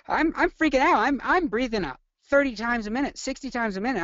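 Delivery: high-pitched freak-out, playing the patient; acted panic. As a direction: act out a hyperventilating patient in a tizzy. Acting out hyperventilating panicked patient.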